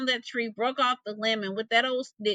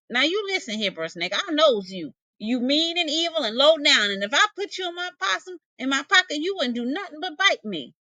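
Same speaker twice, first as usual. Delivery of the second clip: higher, suspicious possum voice; wary possum; 5 semitones higher than usual. Acted. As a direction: scold the snake, wary. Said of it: "Bruh Possum thought".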